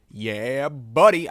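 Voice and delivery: loud, hyped yeah buddy; big celebratory yell; excited cheer. Acted. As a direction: shout it out like a proud fan. Cheering own artwork louder.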